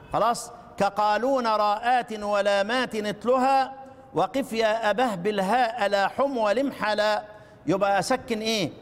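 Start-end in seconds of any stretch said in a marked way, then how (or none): 0.8-7.2 chanted verse in a steady tune; recited verse. Shown as a demonstration. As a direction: recite the line for the class. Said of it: "البيت معك". (إنشاد البيت بنغمة ثابتة)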